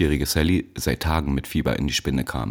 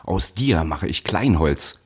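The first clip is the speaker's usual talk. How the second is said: slow threat; slower than usual. Acted. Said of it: "schrie er".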